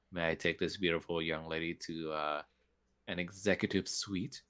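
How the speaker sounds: hint of a fidgety flustered noble; flustered penguin manners. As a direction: hurry him along like a fussy penguin. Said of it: "like penguin flap manners".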